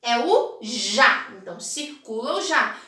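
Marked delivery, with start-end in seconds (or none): 0.0-1.3 É o já said slowly and a bit louder; teacher reveals the answer slowly. Shown as a demonstration. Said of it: "qual a primeira palavra".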